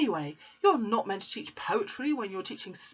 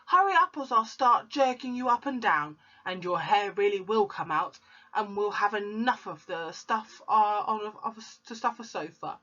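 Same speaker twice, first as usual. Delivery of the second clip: angry shout; 5 semitones higher than usual. Acted. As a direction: yell the threat. Shouting at dangling boy.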